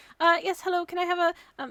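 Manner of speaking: very high, very loud, halting, bossy voice. The speaker shows how their voice changes when ordering, higher voice when ordering. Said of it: "when i'm in like that kind of situation".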